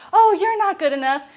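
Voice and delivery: inner critic. Shown as a demonstration. Therapist voicing the inner critic at a client, taunting. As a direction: sneer it like the critic in their head. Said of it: "when I'm like".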